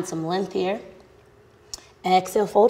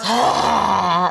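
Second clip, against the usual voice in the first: breath out the mouth; 3 dB louder than usual. Shown as a demonstration. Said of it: "Exhale out the mouth".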